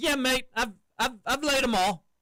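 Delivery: put-on high, slight New Zealand accent. Quoting a guy's reply to her, in his little new zealand accent. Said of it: "in his little New Zealand accent".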